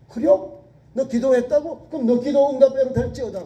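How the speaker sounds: priest's blessing. Retold or imitated. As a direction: call it out like a surprised priest granting the prayer. Voicing priest Eli's reply.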